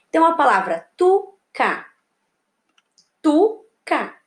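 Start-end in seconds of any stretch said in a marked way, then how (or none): 1.0-1.9 TU, then CA, with a gap; syllable by syllable. Shown as a demonstration. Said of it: "Vocês vão separar as sílabas". 3.2-4.2 TU and CA said apart; two separate beats for "Tuca", pause between; syllable by syllable. Shown as a demonstration. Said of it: "duas sílabas".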